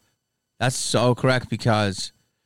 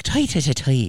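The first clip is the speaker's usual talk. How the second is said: a hint of Irish accent, muttered and repeated; half-hearted Irish grumble; faster than usual. Retelling the actor still fuming about a reporter: light mock Irish accent. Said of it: "I'm trying to do his accent".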